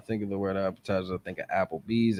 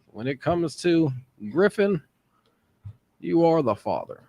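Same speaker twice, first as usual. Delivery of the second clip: mock announcement; 8 semitones higher, 6 dB louder than usual. Mock dramatic reveal.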